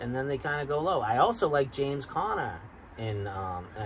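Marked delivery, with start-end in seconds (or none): 1.0-3.3 Boston accent slipping out; natural Boston accent in the vowels. Real, not acted. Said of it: "do you hear my Boston accent there?".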